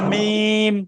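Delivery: "মিম" with both lips closed firmly, then released; teacher's model mim. Shown as a demonstration. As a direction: show the correct lip makhraj on "মিম". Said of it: "এইভাবে।". (শিক্ষক দেখাচ্ছেন সঠিক "মিম" উচ্চারণ)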